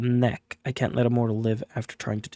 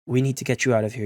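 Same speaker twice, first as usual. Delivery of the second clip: urgent; faster than usual. Acted. Player urging the wounded Jordan to leave, quick and urgent. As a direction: hurry her along, pressing. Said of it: "you say urgently".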